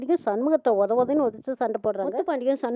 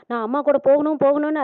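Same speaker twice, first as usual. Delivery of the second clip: louder, higher mock tearful pleading; retold tearful plea; 3 semitones higher, 5 dB louder than usual. Bharani begs to ride with her mother, a lightly acted tearful plea. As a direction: beg to go along, crying it out lightly. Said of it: "அழுகுறாங்க பரணி".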